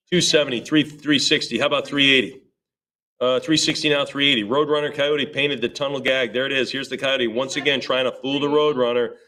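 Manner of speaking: brisk auctioneer chant of numbers; auction bid calling. Acted. Auctioneer calling bids to the room, rhythmic chant. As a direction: keep the bids rolling.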